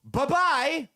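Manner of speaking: mock the poster with a chirpy high farewell; mocking quote. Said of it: "And you decide to say".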